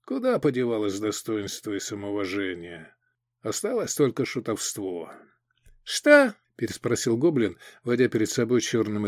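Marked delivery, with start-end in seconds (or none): 0.0-5.1 muttering. Acted. Continues muttering to himself. 5.8-6.3 surprised. Acted. Goblin asks, surprised.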